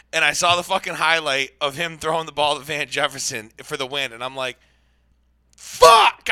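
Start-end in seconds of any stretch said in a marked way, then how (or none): 5.5-6.3 loud, high frustrated yell; angry shout. Retold or imitated. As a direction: explode in frustration. Seeing the winning highlight.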